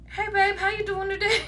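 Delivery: sugary greeting breaking into a laugh; sweet opener, cracking up. Shown as a demonstration. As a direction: try the sweet hello but crack up. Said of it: "I need y'all to just be like".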